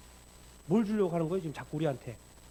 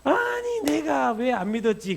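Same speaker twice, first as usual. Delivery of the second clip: sudden high, loud anguished cry, then slow; hammed-up tearful lament; tearful regret; 8 semitones higher, 9 dB louder, slower than usual. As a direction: wail it out in remorse. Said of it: "도마 엄청 눈물 흘렸을 것 같아요".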